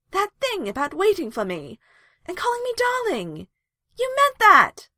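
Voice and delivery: loud, high accusing outburst; heated shout, pitched high. A narrator's reading. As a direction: throw it at them as an accusation. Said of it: "she accused".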